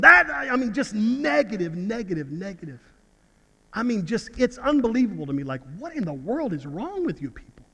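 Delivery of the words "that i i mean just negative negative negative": mock grumble that starts loud and fades away; mock negative commenter. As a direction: imitate a whiny online complainer, trailing off. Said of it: "sixty comments of people going".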